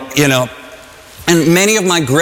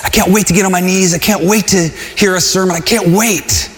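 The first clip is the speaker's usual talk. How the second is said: eager believer; faster than usual. Retold or imitated. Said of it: "you'd be like".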